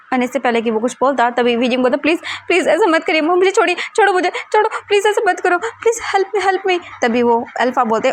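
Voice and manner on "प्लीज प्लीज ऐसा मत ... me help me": much higher, crying out for help; desperate pleading cries. Acted. Weijing crying out to the alphas grabbing him, desperate. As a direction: beg them to let go, panicked. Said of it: "ये कितना चिल्ला रहा है यार".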